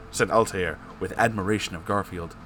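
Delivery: usual speaking voice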